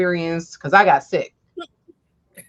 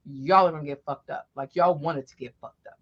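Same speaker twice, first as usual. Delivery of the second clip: mom's threat; 6 semitones lower than usual. Retold or imitated. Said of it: "She was like".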